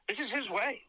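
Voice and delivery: a breathy confiding whisper; hushed mock-reverent whisper. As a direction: lean in and let them in on a secret. Confiding aside about Selleck.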